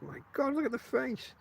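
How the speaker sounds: put-on high, hushed sneering girl; mocking girl. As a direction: gasp it like a mean teenage girl. Mocking girls in sweet shop.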